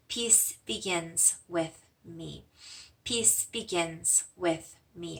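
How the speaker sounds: slow, soft mantra repeated; gentle meditation chant; spoken mantra. Shown as a demonstration. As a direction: say it calmly, drawn out, five times. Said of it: "We'll say it five times out loud".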